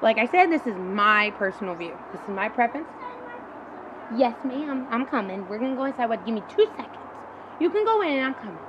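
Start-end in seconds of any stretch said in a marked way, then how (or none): 4.2-8.6 calling to someone off-mic; answering her daughter, turned away; turning away from phone. Real, not acted. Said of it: "that was my daughter".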